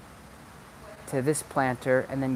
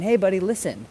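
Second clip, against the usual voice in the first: higher coaxing call to the dog; owner pleading with dog; 7 semitones higher, 4 dB louder than usual. Retold or imitated. Owner trying to get the dog's attention, coaxing. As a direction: coax a distracted dog. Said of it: "going outside and saying".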